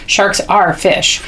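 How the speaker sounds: slowly, with weight on "are"; stress on "are". Shown as a demonstration. Demonstrating reading to a child, emphasis on "are". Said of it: "I emphasize the word are".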